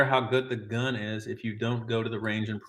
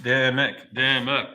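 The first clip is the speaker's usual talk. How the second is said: half-hearted chant of a name; mock cheer; 4 dB louder, slower than usual. Streamer leading chat to cheer on Dimmick, mild mock chant. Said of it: "Let's all cheer on Dimmick".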